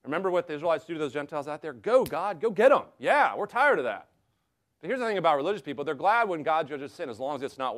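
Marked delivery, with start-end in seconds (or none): 1.7-4.1 higher, louder mock cheer egging God on. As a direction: cheer like a gloating crowd. Israelites cheering God's judgment.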